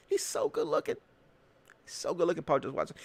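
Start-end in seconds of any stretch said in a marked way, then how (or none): 0.1-1.0 high, dreamy mock gushing, a touch quieter; mock swooning. Mocking Watson's fans, a high dreamy mock swoon.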